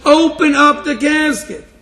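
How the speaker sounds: a hint of a commanding soldier; lightly acted soldier's order. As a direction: slowly insist like a border guard. Soldier ordering a coffin opened.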